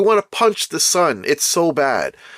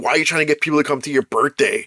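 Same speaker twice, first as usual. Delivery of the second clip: rattled off fast in a put-on voice; a mild mock yell, rushed; mock whiny quote; 2 semitones lower, much faster than usual. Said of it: "yelling at her, saying".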